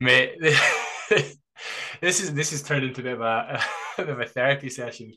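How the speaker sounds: light laugh breaking into the line; rueful laughing half-apology; laughing through words. Real, not acted. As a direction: chuckle as you speak.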